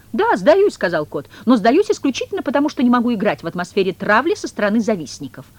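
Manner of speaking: very high, loud indignation; indignant cat. Acted. The cat surrendering but blaming envious rivals, indignant. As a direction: protest with wounded pride.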